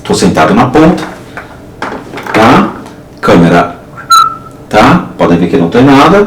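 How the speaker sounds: loud, echoing in a closed room. Real, not acted. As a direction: call out into the echo. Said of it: "Olha o eco".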